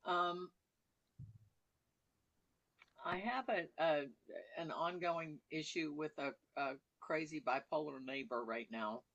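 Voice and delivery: words around a bite of food; chewing while talking. Real, not acted. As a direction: mouth full while speaking. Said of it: "I'm chewing".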